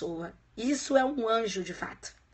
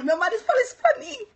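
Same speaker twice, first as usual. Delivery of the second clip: a quick, high, playful Northeastern Brazilian lilt on "meu marido falou isso pra mim"; Northeastern accent; 12 semitones higher, 6 dB louder than usual. Shown as a demonstration. Teacher back from the Northeast showing her new Nordeste accent. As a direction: slip into a Nordeste accent to show it stuck. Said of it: "voltei com o sotaque".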